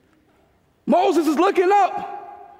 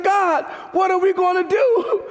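raised, calling up to God; pleading cry; 5 semitones higher than usual. Retold or imitated. Moses crying to God.

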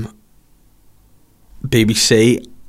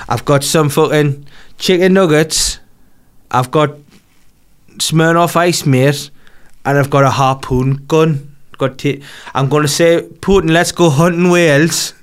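Gazza impression; 4 semitones higher, slower than usual. Gazza voiced in a story.

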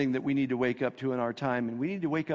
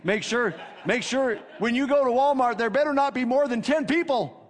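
mild nagging, anxious voice of fear; 7 semitones higher, 4 dB louder than usual. Retold or imitated. Preacher voicing fear nagging the listener, mild anxious nag. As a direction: nag like a worried inner voice. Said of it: "He's always saying".

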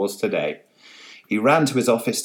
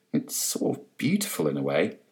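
dreamy murmur; 4 semitones lower, 5 dB quieter than usual. Acted. Transfixed policeman musing.

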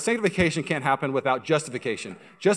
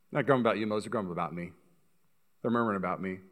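God's reply; 5 semitones lower, 6 dB quieter, faster than usual. Acted. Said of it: "and God goes".

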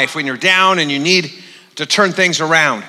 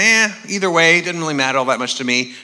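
quick, dismissive throwaway; mock offhand; 3 dB quieter than usual. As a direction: toss it off as if indifferent. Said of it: "sort of an offhand kind of".

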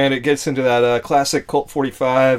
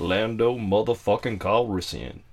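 Lando impression. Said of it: "Damn, you do a good Lando".

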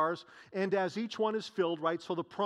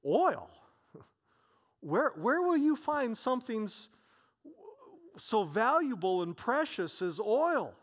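surprised neighbor; 4 semitones higher than usual. Acted. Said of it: "the neighbor says".

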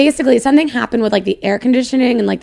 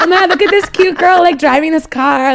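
higher, gushing imagined voice; imagined woman admiring her, higher and gushing; imagined admirer; 6 semitones higher, 4 dB louder than usual. Pretend. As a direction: gush over a cute girl, lightly voiced. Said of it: "I thought maybe she was like".

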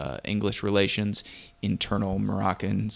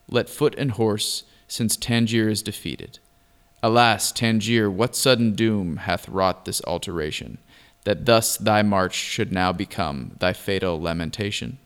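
poem recitation; 4 dB louder than usual. Acted. Reads the old poem aloud.

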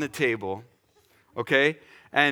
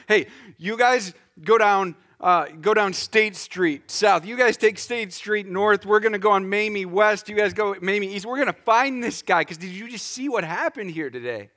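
higher, raised voice handing out orders; excited rallying; 4 semitones higher, 3 dB louder than usual. Acted. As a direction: play someone rallying a search party. Acts out congregation organising a search.

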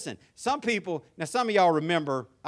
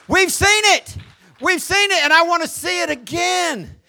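shouted, rising sermon climax, higher and louder; preaching at full force; 6 semitones higher, 8 dB louder than usual. Acted. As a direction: drive it home like a preacher at the peak of his sermon. Pastor preaching climax to congregation.

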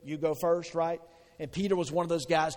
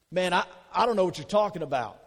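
flustered denial; 3 semitones higher, 6 dB louder, faster than usual. Acted. Acting out Peter's denial, louder.

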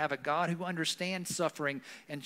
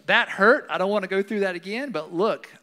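proud survivor; 4 semitones higher, 9 dB louder than usual. Retold or imitated. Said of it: "There's a sense of".

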